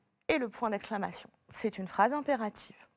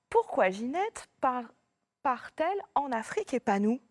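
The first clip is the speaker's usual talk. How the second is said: indignant question. Shown as a demonstration. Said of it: "C'est une question".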